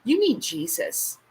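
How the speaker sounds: high, slow mock scolding; mock-stern. Real, not acted. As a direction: scold it slowly. Dismissing a rude comment.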